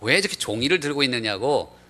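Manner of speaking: mild mock rebuke; lightly acted indignation; retold scolding. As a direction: imitate someone insisting as they tell off a guide. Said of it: "그렇게 야단을 치더라는 거예요".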